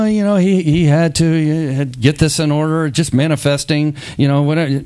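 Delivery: mocking dismissive.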